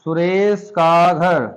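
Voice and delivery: सुरेश का घर drawn out slowly, each word apart; teacher slowing सुरेश का घर down for students; slow careful demo. Shown as a demonstration. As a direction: spell out सुरेश का घर slowly for the class. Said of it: "ऐसे मैंने लिख दिया तो बेटा ये होगा गलत".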